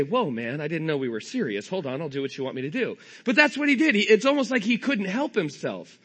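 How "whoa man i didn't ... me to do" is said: lower, placating mock reply; lightly voiced startled bolt. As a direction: play an insulted screw giving in, quick and low. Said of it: "look back at him and say".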